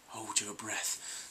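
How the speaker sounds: slow, flat robotic command; mild robot impression, drawn out. Vlogger imitating Clara acting like a robot, slow. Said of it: "act like a robot".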